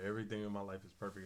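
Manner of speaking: plain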